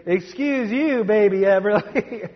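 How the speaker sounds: put-on high toddler voice saying "Excuse you, baby Everly". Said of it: "but you may get a".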